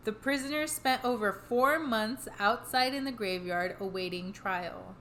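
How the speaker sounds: measured podcast read-aloud of history; scripted history narration. A narrator's reading. Telling the co-host the history behind the hauntings, measured narration. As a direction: read the history out steadily, phrase by phrase.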